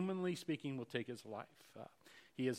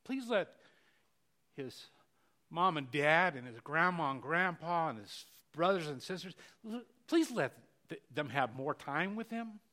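heartfelt prayer; 2 semitones higher, 6 dB louder than usual. Retold or imitated. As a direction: beg the Lord, reaching up on each "please". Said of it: "I say".

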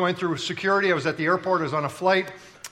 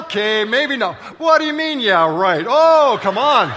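laughing protest; 7 semitones higher, 6 dB louder than usual. Real, not acted. Laughing back at audience reaction.

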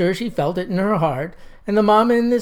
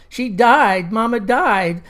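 mock tearful child; 4 semitones higher, 3 dB louder, slower than usual. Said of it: "as tears rolled down her cheeks".

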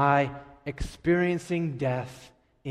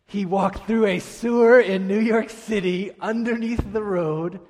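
loud, higher, amazed storytelling; awed emphasis; 5 semitones higher, 6 dB louder than usual. Real, not acted. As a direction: punch it out in sheer amazement. Marvels at the superhero kid's feat.

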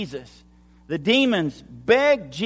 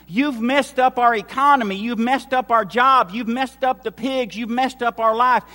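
higher, louder crowd accusation; acted angry complaint; 4 semitones higher, 5 dB louder than usual. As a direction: pile up the accusations as fed-up townspeople. Townspeople's acted complaint against Jesus.

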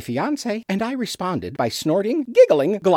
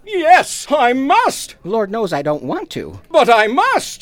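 melodramatic cry; 5 semitones higher, 4 dB louder than usual. Acted. Melodramatic outburst at his fiancée.

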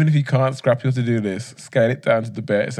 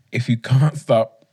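wheezing laugh breaking in; wheezy, slow reading; slower than usual. Real, not acted. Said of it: "that wheeze down the mic".

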